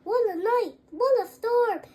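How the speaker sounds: excited high animal voice; high mole voice. Acted. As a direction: squeak it out, a little excited. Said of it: "Mole mutters".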